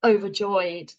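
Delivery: mock overjoyed, slow and drawn out; same annoyed energy. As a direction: say it slowly as if annoyed. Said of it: "I say it with the same energy".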